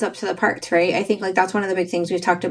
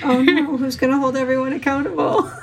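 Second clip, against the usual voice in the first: high mock wail through laughter; hammed-up dismay, laughing; laughing mock despair; 6 semitones higher than usual. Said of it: "I was like".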